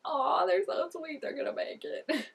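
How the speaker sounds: high, drawn-out aww fading off; gushing coo. Acted. Viewer gushing over a sweet couple, high and cooing. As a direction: coo fondly over the pair.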